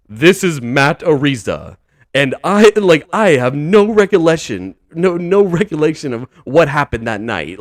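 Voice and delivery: mock-formal statement for the record; Matt Ariza changing tone. Punter covering himself on a recorded call, mock-formal tone. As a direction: imitate a stiff, deliberate official denial. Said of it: "now he changes his tone and goes like".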